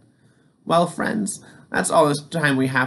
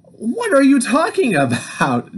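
deep commanding voice; 12 semitones higher, 4 dB louder than usual. Acted. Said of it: "in a deep, commanding voice".

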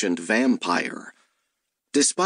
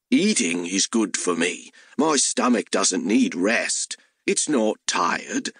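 hellhound voice; 2 semitones lower than usual. Acted.

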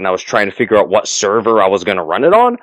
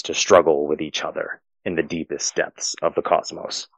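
game master narration; 2 semitones lower than usual. Acted. Game master closing the adventure for the players, measured narration. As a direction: wind the tale down in a measured storyteller's voice.

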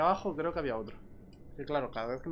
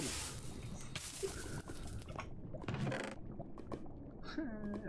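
breathy laugh; 6 semitones higher, 11 dB quieter than usual. Real, not acted. Laughs after killing.

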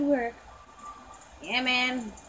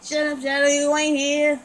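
louder, playful snap at Shadow; mock telling-off; 3 semitones higher, 5 dB louder than usual. Doll telling Shadow to hush, mock annoyed and louder. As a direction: shut him down, half joking.

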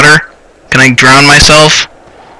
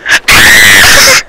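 wordless scream of fright; frightened scream; 6 semitones lower than usual. Real, not acted. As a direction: let the scream tail off wordlessly. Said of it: "I scream like a woman".

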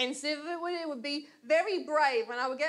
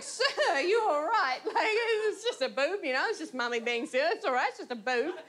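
mock motherly soothing, higher; soothing a heckler; 5 semitones higher than usual. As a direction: talk him down like a mummy to a child. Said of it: "And I was like".

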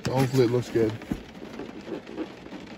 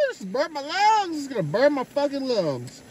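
strained voice; 12 semitones higher than usual. Real, not acted. Reacting to a big hit.

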